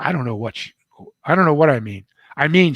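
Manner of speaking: high, loud tearful protest; crying outburst. Retold or imitated. Meredith crying to the author about his mother, loud high outburst. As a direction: blurt it out as she starts to cry. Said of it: "She started to cry again".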